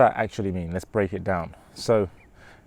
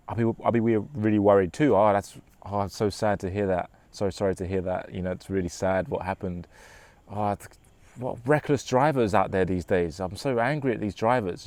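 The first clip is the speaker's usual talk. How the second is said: soft empathetic. Shown as a demonstration. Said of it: "you're relating to them, you're empathizing".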